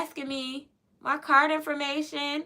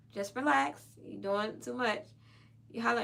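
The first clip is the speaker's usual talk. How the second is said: calming self-talk; 4 dB quieter than usual. Retold or imitated. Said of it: "calm myself down".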